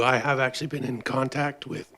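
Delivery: hoarse, strained voice; a voice that is giving out; losing voice. Real, not acted. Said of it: "losing my voice here".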